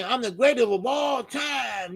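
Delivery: high, drawn-out mock proclamation; imitated boast. Streamer quoting the fighter's claim, imitated boast. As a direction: stretch it out like a champion's boast. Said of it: "Yeah, he did say".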